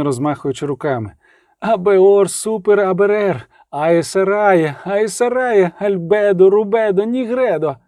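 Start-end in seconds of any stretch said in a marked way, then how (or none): 1.6-7.8 raised, chanted spell words; incantation. A narrator's reading. Reynevan improvising an exorcism, intoning.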